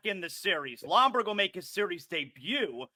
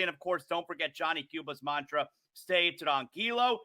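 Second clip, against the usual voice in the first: lively radio ad read, falling away at phrase ends; sponsor read. Real, not acted. Host plugs the show's official beer, ad read.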